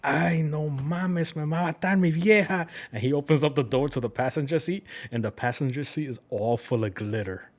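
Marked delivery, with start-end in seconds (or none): 0.0-2.7 imitating the guy. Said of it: "He said something like".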